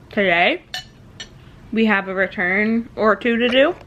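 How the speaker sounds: talking while chewing; words round a mouthful of food; mouth full. Real, not acted. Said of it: "I talk with my mouth full".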